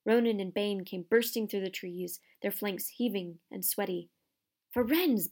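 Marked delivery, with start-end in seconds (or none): 4.7-5.3 loud angry call of a name; thundering call. Acted. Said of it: "Bane thundered".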